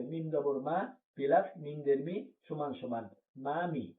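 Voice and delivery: slow, step-by-step spelling of each letter; teacher spells it out slowly to show the parts; slow spelled-out reading. Shown as a demonstration. Teacher to students, slow spelling of মামি. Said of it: "তাড়াতাড়ি পড়া লাগবে".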